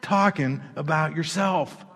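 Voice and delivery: a slow, measured hint of God speaking; slow it right down like God correcting you. God answers the excuses, slow and firm. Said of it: "And God's saying".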